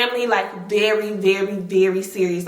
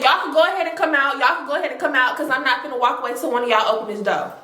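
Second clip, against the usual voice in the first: stern fast demand; much faster than usual. Retold or imitated. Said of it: "So she said".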